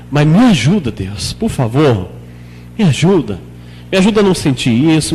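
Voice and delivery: understated personal plea to God; low-key, unceremonious prayer; natural conversational prayer. Shown as a demonstration. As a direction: ask God for help as you would a friend. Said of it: "Vai conversando com Deus de maneira natural".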